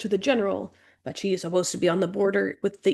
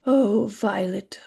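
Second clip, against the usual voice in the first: gentle worried whisper; slower than usual. Acted. Worried sister comforting.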